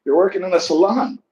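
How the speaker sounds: retold telling off. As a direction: put him in his place, heated.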